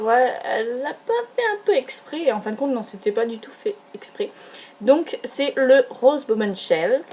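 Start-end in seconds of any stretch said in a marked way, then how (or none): 0.0-2.2 retold suspicious look. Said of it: "il m'a regardé l'air de dire".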